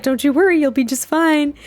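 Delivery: high, drawn-up flirty reassurance. Acted. Woman flirting with her man before her parents arrive, flirty. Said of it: "she's flirting with him".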